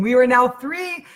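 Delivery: three crying machines, played light and high; mock wailing. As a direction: paint the chaos with a lifted voice. Retold crying overwhelm.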